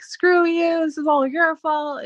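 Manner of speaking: a touch of bitter accusation; retold angry outburst. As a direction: imitate a friend lashing out at her. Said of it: "going off on me".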